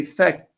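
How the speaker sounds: "fek" with a little breath after the k; hams on kaf. Shown as a demonstration. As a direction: let a slight h escape after "fek". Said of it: "a little bit ha comes out".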